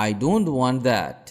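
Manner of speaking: slow model phrase. Shown as a demonstration. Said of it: "আমি ওটা চাই না".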